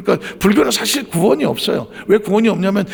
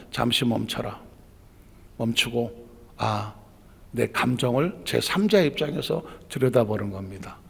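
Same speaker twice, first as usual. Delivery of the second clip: calm softer stopping; 6 semitones lower, 7 dB quieter than usual. Shown as a demonstration.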